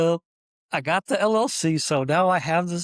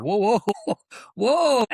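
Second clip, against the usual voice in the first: stunned whoa; 7 semitones higher, 5 dB louder than usual. Retold or imitated. Handed a debit card with cash.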